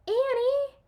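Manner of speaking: high, loud call; loud searching call. A narrator's reading. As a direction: call for her in the dark. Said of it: "he called".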